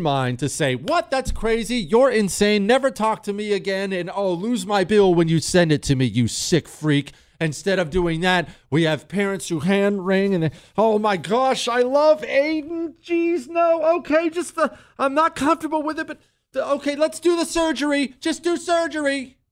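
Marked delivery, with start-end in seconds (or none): 0.8-7.1 high, scoffing rebuff; mock outraged parent; indignant dismissal. 10.8-19.4 high, fretful whiny voice; high anxious mock parent; dithering parent. Hand-wringing parent.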